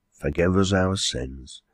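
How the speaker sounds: slow, subdued pious echo; lightly voiced landlady, agreeing. Landlady echoing the quarryman, slow subdued agreement.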